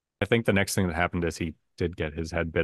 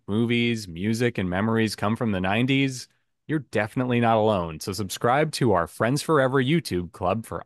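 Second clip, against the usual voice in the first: promo read. Acted. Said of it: "the show description is".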